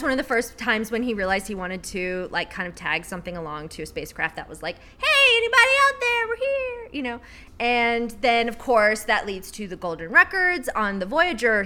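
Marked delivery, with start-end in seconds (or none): 5.0-6.9 high, eager hail into the void; calling out to space. Pretend. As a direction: call out to anyone listening, hopeful. Voicing a message sent to space.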